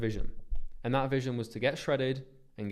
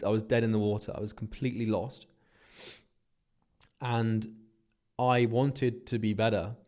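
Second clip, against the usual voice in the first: emotional; 3 dB louder than usual. Real, not acted. Emotional confession of his past.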